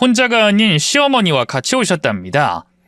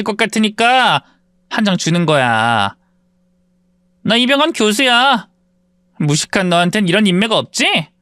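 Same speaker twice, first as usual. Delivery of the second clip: lightly voiced, smug and a bit higher; bragging classmate; 5 semitones higher than usual. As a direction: show off the name card. Classmate brags with business card.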